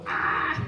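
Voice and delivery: short, voiceless "ah"; sharp gasp. A narrator's reading. Peter lets go of the boat, sharp gasp. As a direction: gasp as you let go.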